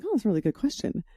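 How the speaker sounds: a quiet, retold moment of interest; quoted inner thought. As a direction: murmur it quickly as if to yourself. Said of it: "I was like".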